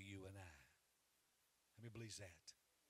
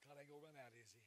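"God ain't gonna run out" repeated much softer; soft echo; 3 semitones higher, 6 dB quieter, faster than usual. Real, not acted. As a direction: pull back and say it gently. Preacher repeats line loud then soft.

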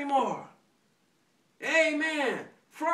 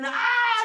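mock scream; 8 semitones higher, 4 dB louder than usual. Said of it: "I'm screaming".

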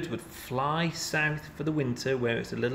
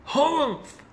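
high squawking bird yell; 13 semitones higher, 4 dB louder than usual. A narrator's reading. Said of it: "yelled a bonga bird".

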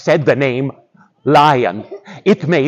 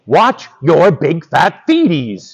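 lion voice. Acted. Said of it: "in lion voice".

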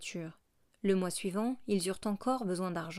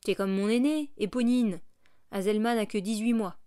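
loud, proud mother bragging; proud boast; 2 semitones higher, 6 dB louder than usual. Acted. Thénardier boasting loudly to the mother about her daughters. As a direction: show off her girls to the stranger.

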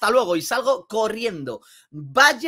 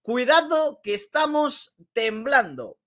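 slow, hammed-up mock trembling; mock fear; 3 semitones higher, slower than usual. Vlogger teasing rival teams, slow hammed-up mock fear. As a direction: drag out "Cuidado que estamos temblando" slowly as mock fear.

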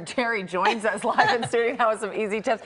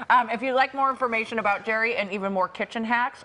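talking through a mouthful of food; words muffled round a bite of kiwi; mouth full. Real, not acted. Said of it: "I'm speaking with my mouth full".

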